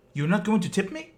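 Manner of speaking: high, loud affronted question; indignant demand. Retold or imitated. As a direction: mimic the delivery man's outrage. Delivery man demanding a tip.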